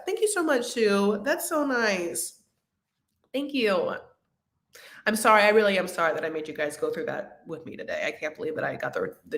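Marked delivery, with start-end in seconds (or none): 0.1-4.0 touched thanks. Real, not acted. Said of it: "I'm a little emotional".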